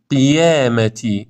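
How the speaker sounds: slow قیامتی with clear "qi"; ق eased before i in قیامتی; correct lighter ق. Shown as a demonstration. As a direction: say قیامتی as "qiyaamati". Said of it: "این درسته".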